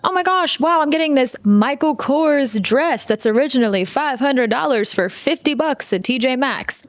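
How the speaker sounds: mock giddy bargain hunter; giddy shopper. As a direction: squeal at the find. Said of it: "you're like".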